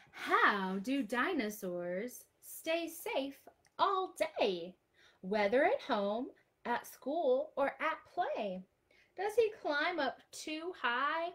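slow, lilting storybook reading; reading to children. Acted. Teacher reading a picture book to children, lilting. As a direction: read the rhyme out to the little ones.

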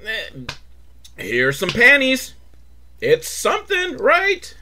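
high, sheepish offer; mock shrug. Producers offering a cheap substitute, sheepish and high. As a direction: hand it over apologetically. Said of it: "So they're like".

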